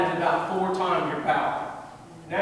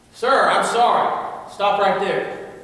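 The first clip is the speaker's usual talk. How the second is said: louder, slow and drawn out; loud command; 2 semitones higher, 5 dB louder, slower than usual. Shown as a demonstration. Self-defense coach models the phrase for class, loud and slow. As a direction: demonstrate a loud, slow warning to an attacker. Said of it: "say that as loud as they can".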